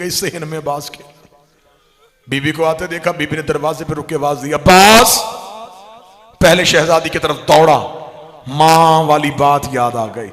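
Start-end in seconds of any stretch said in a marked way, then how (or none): 2.3-10.3 loud, wailing majlis recital building to a cry; grief-laden zakir's cry, loud and rising; impassioned preaching. Acted. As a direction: pour it out to the mourners at full force. Majlis recital of Abbas and Zainab.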